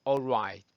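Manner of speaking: All right with no hard L; correct all right. Shown as a demonstration. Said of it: "이렇게 하시면 됩니다".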